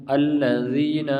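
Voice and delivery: الذین slow, with a light tongue-tip th; thin letter. Shown as a demonstration. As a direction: draw out الذین without thickening. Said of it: "یہ باریک پڑھتے ہیں".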